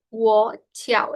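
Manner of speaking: "Wo Tiao" said as two careful syllables; pronunciation model. Shown as a demonstration. Teacher hoping students are repeating, careful pronunciation model. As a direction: model "Wo Tiao" clearly for repetition. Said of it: "puedan entender justamente la pronunciación correcta".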